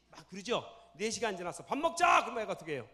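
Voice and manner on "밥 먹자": cheerful mother's call. Retold or imitated. Kind mother calling to dinner.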